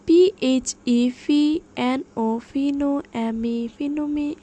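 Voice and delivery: spelling drill, first letters punched out; spelling by syllables. Shown as a demonstration. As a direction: break the word into spelled chunks. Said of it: "ভেঙে ভেঙে, সিলেবলগুলো ভেঙে ভেঙে". (Syllable ভেঙে ভেঙে বানান)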